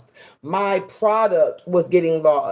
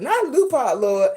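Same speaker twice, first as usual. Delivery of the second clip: mock exasperated groan; 4 semitones higher than usual. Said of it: "That's exactly how I said it".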